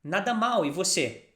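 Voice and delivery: Nada mal, e você said clearly; model phrase. Shown as a demonstration. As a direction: model it for repeating.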